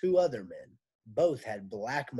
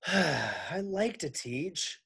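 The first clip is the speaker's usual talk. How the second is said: tearful; 5 semitones higher, much slower than usual. Acted. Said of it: "wiped her eyes".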